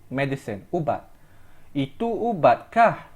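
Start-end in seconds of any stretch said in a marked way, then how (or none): 1.7-3.1 "ubatkah" pressed with a rising end; weight the word "ubatkah"; stress on ubatkah. Shown as a demonstration. Teacher repeating the example to stress ubat. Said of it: "Emphasis on ubat".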